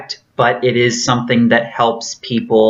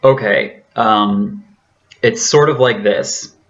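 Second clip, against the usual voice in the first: former voice. Shown as a demonstration. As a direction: demonstrate the old voice, pitched down. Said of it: "here we go".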